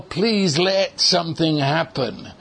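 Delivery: imitated plea with little faith; understated helpless plea; hopeless pleading. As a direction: mimic wishing without expecting it. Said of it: "has within it a sort of hopelessness".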